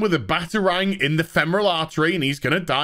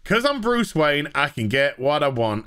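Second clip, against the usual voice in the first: smug Bruce; 3 semitones lower than usual. Retold or imitated. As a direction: play him smug, laughing at his own conquest. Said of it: "He's like".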